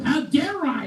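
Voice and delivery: outraged rhetorical question; mock indignant. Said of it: "He s-, also says".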